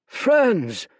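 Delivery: loud, high urgent shout; urgent call. Acted. Fate shouts to his friends to warn them, urgent shout. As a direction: cut through the cheering.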